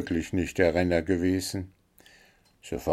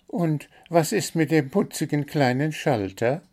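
high, chirpy bird voice listing its complaints; little blue bird, demanding; 8 semitones higher than usual. A narrator's reading. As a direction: play the greedy little bird, pitched up high.

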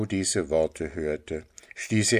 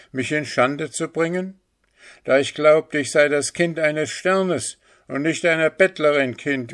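put-on high, loud, indignant boy; hard and unfriendly; 8 semitones higher, 5 dB louder than usual. A narrator's reading. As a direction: rebuke and banish the mother. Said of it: "seine Stimme war hart und unfreundlich". (hart, empört, mit hoher Stimme)

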